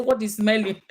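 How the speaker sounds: asking through a laugh; laughing quote. Retold or imitated. Retelling her sister's line, laughing. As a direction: giggle while you ask what smells. Sister Nancy reacts to the house.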